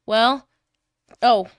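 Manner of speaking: ordinary delivery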